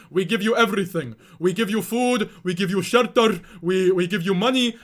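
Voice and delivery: a lightly voiced lecturing parent; parents' voice. Streamer imitating his parents defending themselves. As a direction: list it off like an offended parent. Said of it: "They're like".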